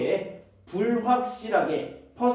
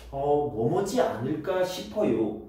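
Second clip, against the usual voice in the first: lower, musing hesitation; tentative intonation; 5 semitones lower than usual. Shown as a demonstration. Teacher showing how a guess is voiced, tentative. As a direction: open on a hesitant 어 and ponder it. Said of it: "이런 느낌으로 이야기를 합니다".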